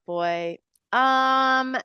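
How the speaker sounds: normal talking voice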